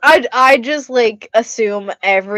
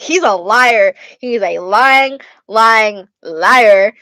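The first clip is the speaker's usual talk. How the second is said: emphatic retold accusation, growing louder; mock accusation; 5 dB louder, much slower than usual. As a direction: punch each accusation harder, imitating a squabble. Re-enacts accusing comeback, repeated for chat.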